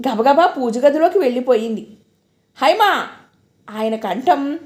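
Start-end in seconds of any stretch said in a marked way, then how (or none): 2.6-3.1 thunderous call. Acted. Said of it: "పిడుగుపాటులా వినిపించింది".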